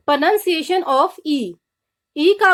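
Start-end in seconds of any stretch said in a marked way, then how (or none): 0.1-1.4 very slow, drawn-out heading; slow announcement. Shown as a demonstration. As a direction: spell out the title slowly, like a teacher. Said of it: "announcing the next letter".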